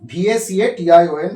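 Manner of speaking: slow, letter by letter; slow spelling out. Shown as a demonstration. Teacher spells each letter of vacation slowly. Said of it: "ভ্যাকেশন".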